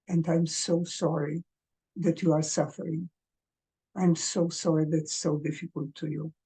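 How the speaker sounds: soft, tender, sorry for their pain; softly consoling. Shown as a demonstration. Parent consoling a suffering child, softly tender. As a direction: comfort a suffering child gently. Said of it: "the words to your kids".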